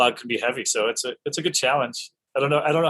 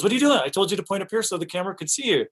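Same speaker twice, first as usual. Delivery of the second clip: high-pitched mock scolding; exasperated AD; 9 semitones higher, faster than usual. Assistant director scolding actor for pointing down, mock exasperated. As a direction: imitate a harried assistant director telling someone off.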